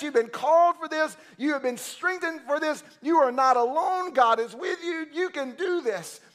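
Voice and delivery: put-on Paul to young Timothy, fervent encouragement; Paul urging Timothy. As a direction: build him up like a father. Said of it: "grabbing him by the shoulders and saying".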